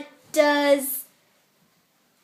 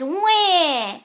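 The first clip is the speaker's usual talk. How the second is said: put-on baby cry; 4 semitones higher than usual. Shown as a demonstration. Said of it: "The baby says".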